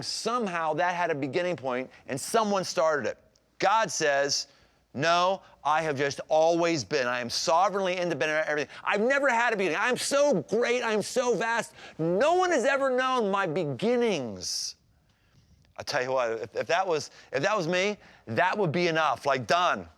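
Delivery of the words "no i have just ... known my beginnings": rising grandly on so great and so vast; a grand declaration, building higher; hint of a booming God; God boasting.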